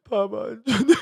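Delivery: high mock wail through laughter; laughing mimicry. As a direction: mimic the kid's sob while laughing. Imitating child's wail, laughing.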